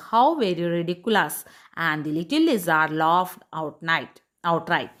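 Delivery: slow, measured English read-aloud; story reading. A narrator's reading. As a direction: read the tale slowly, phrase by phrase. (സാവധാനം കഥ വായിക്കുന്നു)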